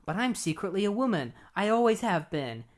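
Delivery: high, hammed-up reveal; lightly imitated high voice; mock confession. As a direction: confess it like a cheesy melodrama. Secret confession, read aloud.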